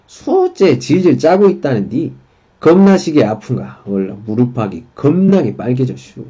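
field reporter speaking broad Chungcheong dialect, endings stretched; 충청도 사투리 리포터. Shown as a demonstration. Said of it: "충청도 방언, 방언으로 좀 해볼게요".

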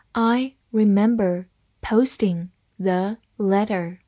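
"I remember posting the letter", slow, word by word; slow read-along. Shown as a demonstration. Teacher modelling the first sentence for learners, slow word-by-word reading. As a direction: separate each word clearly for learners. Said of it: "好，慢慢来读".

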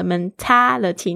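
Mentality slowly with an open ah on ta; open a vowel. Shown as a demonstration. Teacher modelling Mentality for students, open ah. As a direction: stress the ah in Mentality. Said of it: "那个A它是啊的声音".

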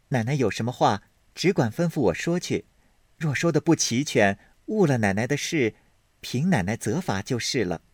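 a touch of bright eagerness; eager maid. Acted.

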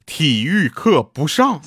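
very slow mock announcement; deliberate pronouncement. Mock teacher cancelling PE class, slowly and deliberately. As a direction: measure out each word for effect. Teacher's dreaded five-word order.

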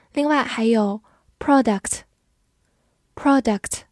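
product stressed on PRO, said slowly twice; stress on first syllable. Shown as a demonstration. Teacher modelling product with stress on PRO, slow. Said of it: "重音在前面".

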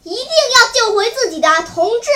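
high, ringing declaration; resolute, full-voiced vow; loud shout. A narrator's reading. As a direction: cry it out like an oath. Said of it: "高声喊叫说".

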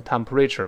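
"temperature" with a full "RAY" syllable; wrong pronunciation. Shown as a demonstration. Teacher tells students not to read it so, wrong pronunciation. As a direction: misread "temperature" as tem-puh-RAY-cher. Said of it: "不能乱读成temperature".

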